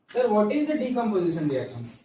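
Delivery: lightly voiced pupil asking the teacher; slow classroom question, a hint of student; student's question. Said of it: "Wait, Balak".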